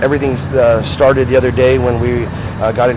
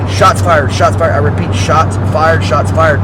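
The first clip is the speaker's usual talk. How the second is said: police radio; 3 semitones higher, 5 dB louder, slower than usual. Retold or imitated. Reenacting radio call during shootout.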